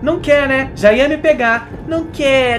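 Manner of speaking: loud mocking questions; sarcastic rant. Real, not acted. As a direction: scold the game. (bronca sarcástica e alta)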